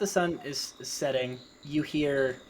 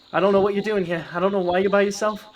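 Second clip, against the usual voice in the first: loud, higher warning voice; loud and forceful, warning off an intruder; stern hunter; 6 semitones higher, 8 dB louder, faster than usual. Acted. Hunter with a bow confronts a goblin, loud and stern.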